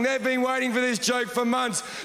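ordinary talk, nothing marked

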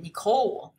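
"Nicole" with the stress on the second syllable. Shown as a demonstration. Teacher corrects students' stress, "Nicole" stressed on the last syllable. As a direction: say "Nicole" leaning on the "cole", not the "Ni". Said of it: "好像都有同学把它念第一个音节重音错哈".

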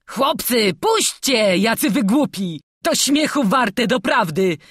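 loud, high, cajoling prisoner; laughing plea. A narrator's reading. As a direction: plead while making light of it. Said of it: "prosił więzień, śmiejąc się".

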